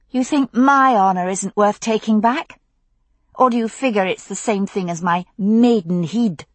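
sneering Scottish accent mimicry; mock his Scottish accent cruelly; nasty mock Scottish accent. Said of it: "She mocked his accent nastily".

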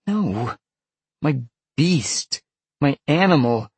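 put-on high, upset girl's voice; distressed girl. A narrator's reading. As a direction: correct him in a high, exasperated voice. Upset girl naming her inner beast.

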